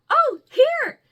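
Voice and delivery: loud, high-pitched burst; sudden high offer, imitating a friend; imitated handing-over. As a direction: pop it out high and loud, as if thrusting a gift at someone. Acting out Z handing over gift.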